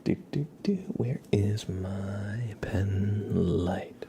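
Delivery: very slow unvoiced whisper; whisper, stretching each word; ASMR whisper. Looking for his pen light on stream, slow whisper.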